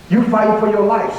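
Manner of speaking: urgent, insistent student protest; retold worried protest. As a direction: press the point with mild alarm. Student confronts sick teacher, she answers.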